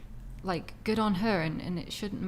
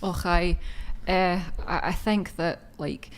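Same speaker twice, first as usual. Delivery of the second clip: lightly put-on Scottish accent, louder; 4 dB louder than usual. Shown as a demonstration. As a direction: answer in a hint of Scottish accent. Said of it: "in Scottish though".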